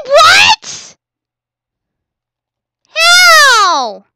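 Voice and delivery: high, loud disbelief; astonished what; shocked cry. Real, not acted. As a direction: blurt out the shock. Shock at outcome.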